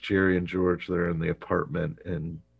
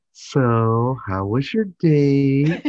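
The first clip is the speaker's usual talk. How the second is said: laughing; 8 semitones higher, 9 dB louder, much slower than usual. Retold or imitated. Elaine teases, laughing.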